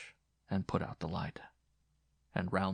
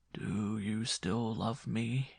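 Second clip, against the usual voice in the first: very slow, yearning question; tender plea; 4 dB quieter, much slower than usual. Acted. Man asks the woman about love, tenderly pleading. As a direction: draw the question out softly.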